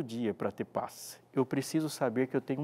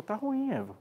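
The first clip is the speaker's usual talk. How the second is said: mock tempter, pitched higher; Satan's taunt; 9 semitones higher than usual. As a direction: whisper doubt into her ear. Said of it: "Satanás olhou pra ela e falou". (imitação leve de Satanás, mais aguda)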